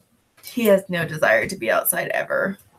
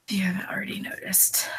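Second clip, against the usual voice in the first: whisper; 6 dB quieter, faster than usual. Real, not acted. Whispered aside to viewers.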